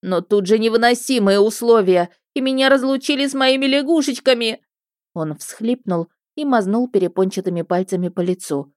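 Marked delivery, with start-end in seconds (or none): 0.0-4.6 high, louder whining plea; tearful whiny complaint. Acted. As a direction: whine like a spoiled child. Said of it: "продолжил плаксиво".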